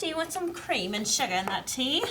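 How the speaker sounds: lightly put-on British accent; a hint of British; mock British accent. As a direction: play the teasing English host. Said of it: "Are you British?".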